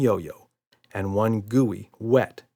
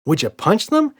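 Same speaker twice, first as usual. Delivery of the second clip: put-on little girl voice; 12 semitones higher, 7 dB louder than usual. A narrator's reading. Emma voiced.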